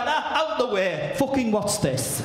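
mock missus. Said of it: "your missus is like".

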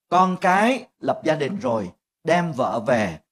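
normal talking voice

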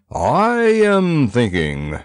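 slow, self-important musing; pompous pondering. A narrator's reading. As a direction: drag it out grandly. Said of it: "mumbled Pudge".

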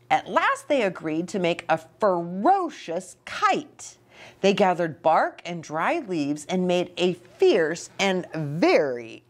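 put-on reading to children. Reads story to children.

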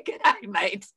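lightly put-on Australian accent; a hint of Aussie twang. Shown as a demonstration. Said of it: "in an Australian accent".

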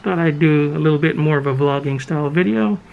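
muffled through a face mask; through fencing mask. Real, not acted. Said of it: "Don't know if you can hear me through the mask".

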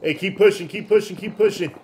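loud urgent push command; combat callout. Real, not acted. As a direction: drive the squad onward. Urging squad under fire.

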